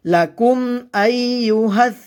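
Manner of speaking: "আইয়ুহাস" chanted with the voice running on; continuous sound. Shown as a demonstration. Teacher showing learners "আইয়ুহাস" without a break. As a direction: keep sound flowing through "আইয়ু" in "আইয়ুহাস". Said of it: "আওয়াজ জারি থাকবে".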